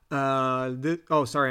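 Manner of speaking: dry mouth clicking between words; mouth noises. Real, not acted. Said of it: "I'm making a lot of mouth noises".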